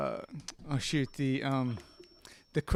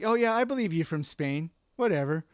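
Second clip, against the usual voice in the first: skeptical mock agreement, pitched up then dropping off; mock belief. Scoffing at an actor's Scottish-sounding Spaniard, mock belief. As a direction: pretend to buy it, then shrug it off. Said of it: "And like".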